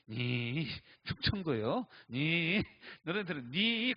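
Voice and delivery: mock Gyeongsang dialect questioning; Gyeongsang accent. Pastors teasing the speaker about Chungcheong, in a Gyeongsang accent. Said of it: "고향이 어디냐고 물어봐요".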